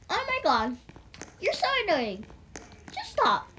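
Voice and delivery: high-pitched whiny exasperation; bratty, exasperated teen complaint; annoyed teen. Acted. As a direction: whine it at mom in mock annoyance. Acted teen annoyed at mom.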